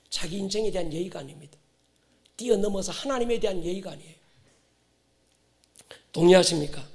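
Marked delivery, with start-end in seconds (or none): none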